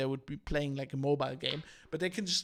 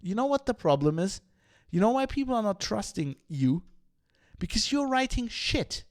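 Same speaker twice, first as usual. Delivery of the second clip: louder, blunt telling-off to journalists; imagined panel retort; 2 semitones higher, 6 dB louder than usual. Pretend. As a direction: say it like you're finally on that panel setting them straight. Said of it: "I would have said".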